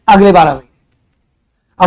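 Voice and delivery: अगले बारह महीने said slowly, drawn out; slow answer. Shown as a demonstration. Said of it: "कब होगा?". (धीमे खींचकर जवाब)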